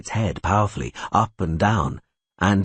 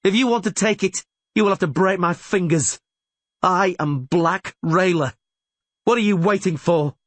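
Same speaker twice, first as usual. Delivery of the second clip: high, raised fighting voice; defiant cry; 11 semitones higher than usual. A narrator's reading. Rayla challenges the elves to attack, crying out. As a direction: dare them to come closer. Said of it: "she cried".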